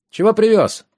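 put-on high-pitched little boy calling out; ringing boy's shout. A narrator's reading. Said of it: "звонко выкрикнул мальчонка лет семи-восьми". (звонкий крик мальчишки)

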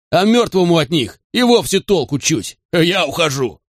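high-pitched, agitated refusal; near hysteria. A narrator's reading. Wayne telling Garrett he is leaving, near hysteria. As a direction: keep the pitch high, close to panic. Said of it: "Он был близок к истерике".

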